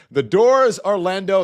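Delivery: loud, high preacher's call; mock church preacher. Playing preacher opening the church.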